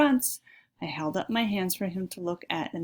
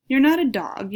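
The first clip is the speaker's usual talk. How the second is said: louder, higher sharp reprimand; scolding; 6 semitones higher, 8 dB louder than usual. Acted. Mom scolding Freddy for sniffing his plate, louder and higher. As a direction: mom telling off her son's manners.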